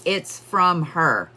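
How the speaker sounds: slow, deliberate, each word weighed; slow insistent quote. Retold or imitated. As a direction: repeat it slowly and firmly. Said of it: "he keeps saying".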